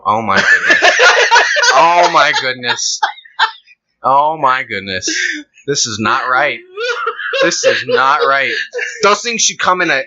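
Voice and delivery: laughing mock despair; half-laughing fake dismay; mock appalled onlooker. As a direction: wring hands over the jalapeno.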